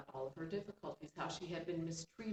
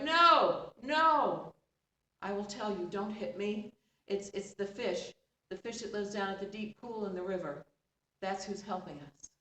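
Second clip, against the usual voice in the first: frightened dog; 2 semitones higher, 8 dB louder than usual. Acted. Dog begs stepmother not to hit it, panicked. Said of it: "the dog was like".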